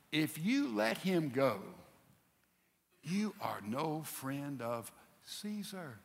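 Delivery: slow, measured warning, sinking low and soft; veiled threat. Retold or imitated. Religious leader warns Pilate about Caesar, slow acted threat. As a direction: draw out each phrase as a threat.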